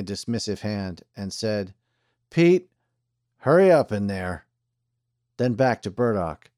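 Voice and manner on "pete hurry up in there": calling out. A narrator's reading. Sheriff calling into jail.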